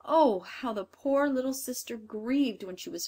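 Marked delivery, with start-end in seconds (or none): none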